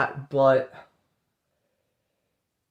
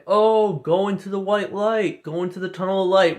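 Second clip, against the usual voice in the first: mock soothing guide; 5 semitones higher than usual. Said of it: "get brainwashed ... saying".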